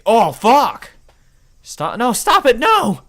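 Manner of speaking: very high, loud struggling screams; terrified screams; panicked screaming. Acted. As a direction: fight and scream to be let go. Held in a full nelson.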